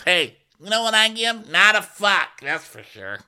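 high, loud mock comeback; imitated defiant yell. Guest hollering back during a fight, mock defiant shout. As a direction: call it out, hammed-up and high.

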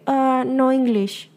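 slow, hesitant mock "no English"; a hint of a flustered boyfriend, slow; imitating nervous boyfriend. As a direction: lightly play the nervous shy guy backing off. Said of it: "así súper nervioso".

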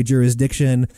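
jurisdiction as juriz-DIC-tion; demonstrating jurisdiction with a D, not a T; Z sound on S. Shown as a demonstration. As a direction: say jurisdiction with a clear D after a Z. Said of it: "if you do a Z sound on the S".

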